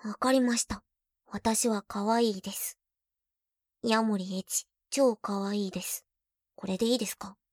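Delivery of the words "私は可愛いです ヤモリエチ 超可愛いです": slow, reluctant concession; mock-grudging yes-I'm-cute. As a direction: say it like you're forced to. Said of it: "はいはい、わかりました".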